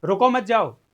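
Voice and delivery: रुको मत जाओ run together in one loud breath; no pause. Shown as a demonstration. Teacher posing an ambiguous phrase to students, run together without pauses. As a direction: say रुको मत जाओ loudly without any break. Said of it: "मैं अभी आपको बोलता हूं".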